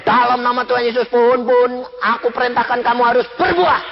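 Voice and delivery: a mildly stern, brisk order to the tree; stern command. Retold or imitated. Woman ordering her tree to bear fruit, mild mock sternness. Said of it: "kamu galak kok".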